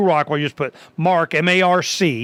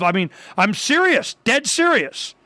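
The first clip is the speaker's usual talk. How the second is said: ordinary talk, nothing marked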